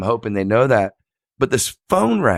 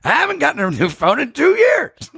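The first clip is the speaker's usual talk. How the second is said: high mock shout; wife's outburst. Wife on the phone yelling back, mock. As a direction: snap back at him. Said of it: "She goes".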